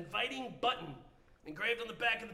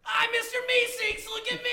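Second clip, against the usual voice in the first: Mister Meeseeks; 11 semitones higher, 7 dB louder than usual. Acted. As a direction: announce yourself with eager slowness. New Meeseeks appears.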